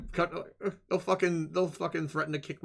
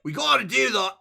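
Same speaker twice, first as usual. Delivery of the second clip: broad mock Australian, eager; Australian accent; 6 semitones higher, 4 dB louder than usual. Shown as a demonstration. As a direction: try out a hammed-up Aussie accent. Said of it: "Can I do Australian?".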